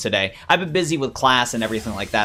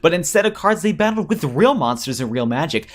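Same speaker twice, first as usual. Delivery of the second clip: storytelling villain, lightly voiced; theatrical villain. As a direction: relate ancient lore with a touch of villainy.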